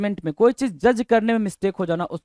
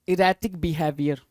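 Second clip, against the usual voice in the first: drawn-out, measured reading of the term; slow dictation; 3 semitones lower, much slower than usual. Real, not acted. Teacher writing the term for students, slow dictation. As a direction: say it slowly as you write.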